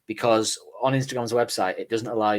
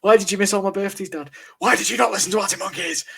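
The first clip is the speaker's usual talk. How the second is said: put-on child voice; 11 semitones higher, 6 dB louder than usual. Imagined neglected child voice.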